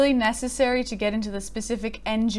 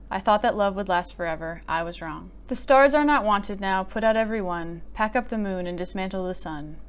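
solemn poem reading. Acted. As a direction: let each line land with grief. Reads Funeral Blues aloud.

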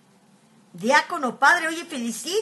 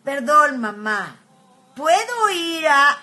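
son's polite request; 3 semitones higher, 7 dB louder, much slower than usual. Retold or imitated. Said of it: "y dijo".

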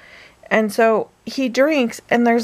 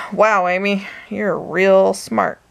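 dry sarcasm, drawn-out ending; mock yourself, stretching the last words; sarcastic self-mockery. Woman scolding herself over false poison scare, dryly sarcastic. Mocking herself after the mistake.

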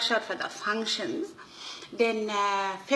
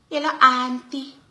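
put-on posh accent; 4 semitones higher, 7 dB louder than usual. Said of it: "His whole accent and all changed".

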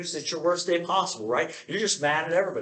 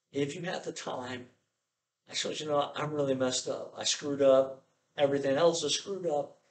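timid prayer. Pretend. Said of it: "How do you approach God?".

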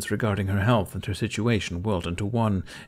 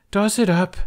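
high, loud sharp order; 12 semitones higher, 6 dB louder than usual. Acted. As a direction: snap it at the burglar. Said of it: "Kamikaze ordered".

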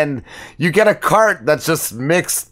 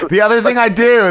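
higher and louder to cut in; raised voice; 8 semitones higher, 4 dB louder than usual. Real, not acted. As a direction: raise the voice to take the floor. Repeats louder over crosstalk.

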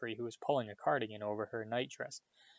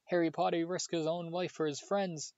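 high, moaning elf voice in miserable ecstasy; 7 semitones higher than usual. A narrator's reading. Adoring elf moans about Harry, miserable ecstasy. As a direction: moan it in tearful adoration. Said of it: "moaned Dobby".

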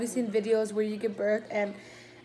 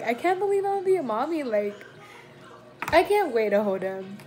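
emotional. Real, not acted. Mother-to-be telling viewers about her baby, emotional. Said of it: "this topic has been so, like, emotional".

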